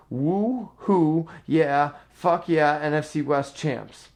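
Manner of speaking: half-hearted retold whooping, drawn out; mock celebratory yell. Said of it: "he kept yelling".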